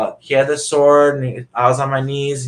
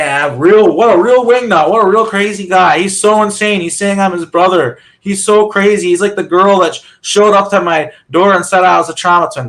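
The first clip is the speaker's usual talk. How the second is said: mocking, higher and louder, sneering at a crazy brother; brother's predicted mockery, sneered higher and louder; mocking dismissal; 4 semitones higher, 5 dB louder than usual. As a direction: scoff at him like he's a nutcase. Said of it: "he's gonna say".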